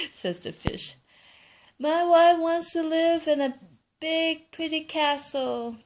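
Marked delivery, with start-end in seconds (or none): 1.8-5.8 grandpa asking. Acted. Grandpa tells fish.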